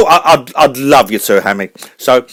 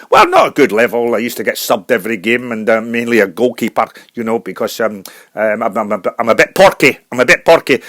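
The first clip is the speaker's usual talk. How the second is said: lower, halting Scottish brogue; Scottish accent; 5 semitones lower than usual. Acted. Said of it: "a Scottish singer".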